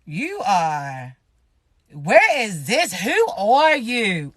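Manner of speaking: mock baffled stare. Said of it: "you gonna be like".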